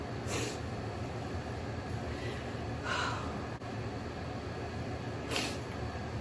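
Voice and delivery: real, soft drawn-out sigh; long tearful sigh. Real, not acted. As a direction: breathe out heavily, collecting yourself. Pauses, overcome by emotion.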